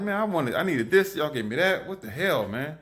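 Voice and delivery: a lightly acted gripe at the grocery service; retold annoyed rant. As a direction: replay the irritation, half joking. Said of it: "I was so pissed off".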